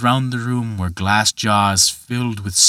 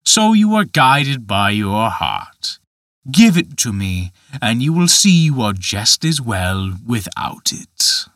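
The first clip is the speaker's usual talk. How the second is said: a lightly voiced giant gently mocking; understated tempter, reasoning with the boy; Dutch Michael, coaxing; 3 dB louder than usual. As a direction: coax him like a sly tempter.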